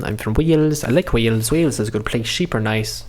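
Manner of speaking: lightly put-on Welsh accent. Reader trying out Lena's voice, Welsh accent. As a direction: try out a simple Welsh lilt. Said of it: "Oh, she was Welsh".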